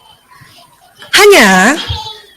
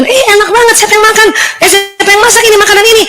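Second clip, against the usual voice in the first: eager guest question; 6 semitones higher, faster than usual. Retold or imitated. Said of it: "nanya teman".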